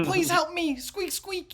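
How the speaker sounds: very high rat-man squeal; high-pitched squeaky voice. Acted. Rat man begs the party for help, high-pitched squeal. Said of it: "He's got a very high-pitched voice".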